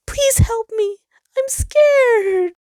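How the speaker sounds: high, loud frightened cry for help; terrified plea. Acted. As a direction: scream for help like a frightened child. Sol panics as children leave.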